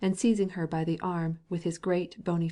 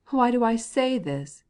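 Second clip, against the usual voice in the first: slow, louder, higher indignant retort; angry; 6 semitones higher, 6 dB louder, slower than usual. A narrator's reading. Husband retorting to his wife, angry and slow. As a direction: throw her question back at her, angrily. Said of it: "continued he as angrily as ever".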